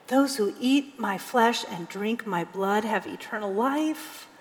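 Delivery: hushed, weighty reading of Jesus' words. Shown as a demonstration. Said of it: "I want to say it like".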